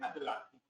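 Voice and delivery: "Atlántico" split as ad-LÁN-ti-co; Spaniards' pronunciation. Retold or imitated. Lecturer imitating Spaniards, "Atlántico" split as ad-LÁN-ti-co. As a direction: keep t and l apart in "Atlántico". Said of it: "esas sílabas ahí, y dicen".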